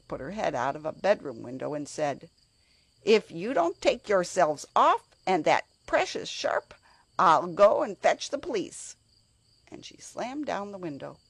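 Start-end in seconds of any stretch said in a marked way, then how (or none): 3.0-9.0 shouted threat. Acted. Cook shouts threat from window.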